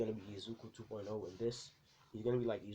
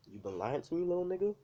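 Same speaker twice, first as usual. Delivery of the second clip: louder, higher furious dad, jumping up on the last words; angry dad yell; 10 semitones higher, 6 dB louder than usual. Acted. Angry dad confronts son about lying, louder yell. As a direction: bark it at the son, pitch flying up at the end. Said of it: "this is what his, his dad says exactly that".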